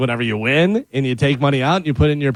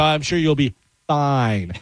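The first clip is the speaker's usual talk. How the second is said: knowing reassurance; slower than usual. Retold or imitated. Sarcastic warning to wife, retold.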